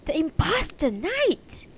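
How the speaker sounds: high, loud accusing shout; crowd cry. Acted. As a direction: cry it out for all to hear. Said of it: "Others took up the cry".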